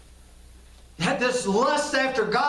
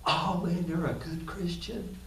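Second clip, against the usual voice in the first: mock praise; 5 semitones lower, 8 dB quieter than usual. Mocking people's praise.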